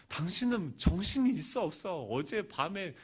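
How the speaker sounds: mildly heated telling-off of his wife; angry outpouring. Retold or imitated. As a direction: reenact an exasperated husband's rant. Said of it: "하면서 막 쏟아붓고 나니까".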